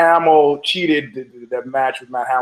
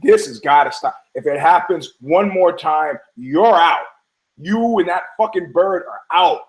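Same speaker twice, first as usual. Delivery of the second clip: acted firm, angry ultimatum; mock-angry telling-off, punched endings; pissed-off woman; 2 semitones higher than usual. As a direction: lay down the law, mildly heated. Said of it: "now she's pissed".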